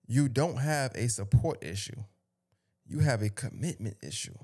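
reading aloud. Real, not acted. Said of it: "I wanna read a post".

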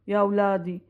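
low, measured retelling of a father's counsel; lightly voiced solemn father; father's parting advice. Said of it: "وقتها قالنا".

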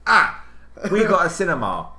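loud high panicked blurt; panicked shout. Retold or imitated. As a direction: caught off guard, blurt it out. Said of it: "and I went".

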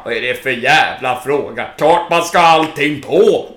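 loud, irritated snap; indignant. Retold or imitated. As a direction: treat the question as stupid. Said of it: "Han bara".

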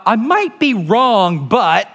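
slow, falsely modest hedge; mock humble. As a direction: drag out "might" to sound humble. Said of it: "but I would say it that way".

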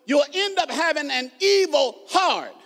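emphatic pulpit warning; forceful preaching. Real, not acted.

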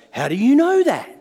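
loud, high cry of amazement; a man shocked that a stranger knows his father; astonished question. Retold or imitated. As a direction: react as if stunned by what he just heard. Muslim man amazed by prophecy.

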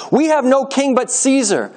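high, slow emphatic cry, restrained volume; shouting back. A narrator's reading. Priests answer Pilate's question, restrained shouting back. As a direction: cry your allegiance back at him. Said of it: "the leading priests shouted back".

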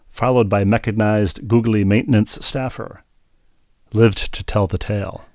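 measured poem recital, pausing after each line; read as a poem. Shown as a demonstration. Podcast host reads a listener's email as a poem, measured recital. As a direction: deliver it line by line like verse. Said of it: "I'll read it as if it were one".

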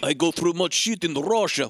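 cartoonish mock Russian accent; Diane Venora's Russian accent. Russian character recalls hardship in Russia, mock Russian accent. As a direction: put on a heavy fake Russian accent. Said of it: "Natasha Fatale Russian accent".

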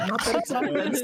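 laughing through a high, defensive protest; half laughing, pushing back. Real, not acted. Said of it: "Why are you yelling?".

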